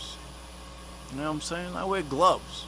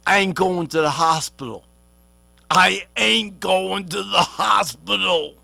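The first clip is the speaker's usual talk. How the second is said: defiant shout. Real, not acted. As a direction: shout it out like you mean it. Defiant rant about refusing hospital.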